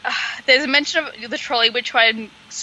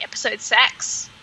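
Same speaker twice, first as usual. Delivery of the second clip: "episode six" in a weak mock New Zealand accent; a quick, half-hearted New Zealand "episode six"; bad New Zealand accent. Shown as a demonstration. Joking to her co-host, a poor New Zealand accent on "episode six". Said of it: "not the best New Zealand accent".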